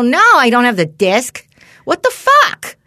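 incredulous, rising to a loud what the fuck; exasperated and loud, at the doctor; mock outrage at the doctor; exasperated retort. Angry retort quoting herself.

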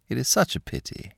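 mock-pitying whisper, fast. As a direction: breathe it out with fake sympathy. Villain feigns pity.

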